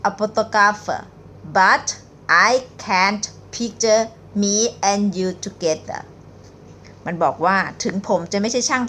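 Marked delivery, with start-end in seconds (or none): 0.1-6.0 very slow reading. Shown as a demonstration. Teacher reading a pickup line very slowly to viewers. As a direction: read each word out slowly, with pauses. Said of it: "หนิงจะอ่านช้าๆนะคะ".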